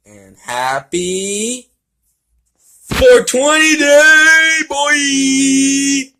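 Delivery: very high, loud, drawn-out shout; stretched-out high yell of celebration; celebratory shout. Real, not acted. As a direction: yell it out like a party cheer. Stoner holiday shout.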